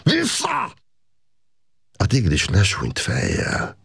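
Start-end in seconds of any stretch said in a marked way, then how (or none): 0.0-0.7 sharp high shout, far higher than the narration; yelled out. A narrator's reading. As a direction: bellow it to drive the tiger back. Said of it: "elüvöltötte magát".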